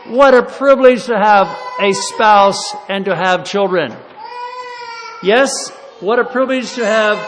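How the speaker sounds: preaching. Acted. Revival preaching at full force.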